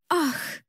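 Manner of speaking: a touched little gasp; hand-to-chest gasp at a sweet answer; soft gasp. Acted. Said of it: "вздохнула Хармони".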